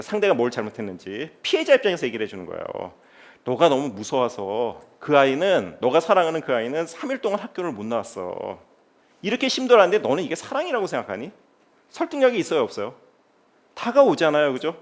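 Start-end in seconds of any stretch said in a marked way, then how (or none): 3.4-11.3 gentle counselling talk. Retold or imitated. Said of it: "제가 조근조근 얘기를 해줍니다".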